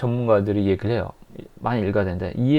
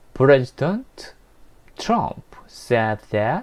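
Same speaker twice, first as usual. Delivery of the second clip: simple English, learner-style newscaster reading. Showing how Voice of America for learners reads news, very slow. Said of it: "엄청 천천히 뭐 ... 이렇게 읽어져요".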